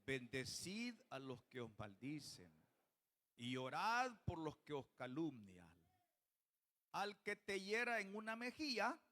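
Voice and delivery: measured Bible reading, verse by verse; scripture reading. Real, not acted. Preacher leads the congregation through Luke six, measured scripture reading. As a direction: read the commands out to a congregation, with weight.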